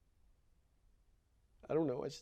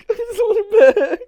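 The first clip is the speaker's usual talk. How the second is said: much higher and louder, slow, voice breaking into sobs; sobbing; 19 dB louder, slower than usual. Acted. Boy sobbing for his mother, breaking down. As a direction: wail it through tears.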